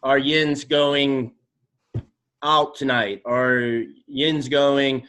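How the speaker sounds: slow, drawn-out Pittsburgh accent on are yins going; Pittsburghese. Shown as a demonstration. Pittsburgh guest slowly demonstrating the local accent. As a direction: stretch it out in Pittsburghese. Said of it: "one of the most popular ones".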